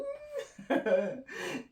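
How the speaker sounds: very high, tiny gleeful laugh; giddy squealing giggle. Real, not acted. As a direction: let out a squeaky giggle of excitement. Giddy about trying more colours.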